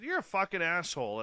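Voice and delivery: fast, loud curse at dad; angry insult. Retold or imitated. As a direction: spit it out and hang up. Retold insult before hanging up.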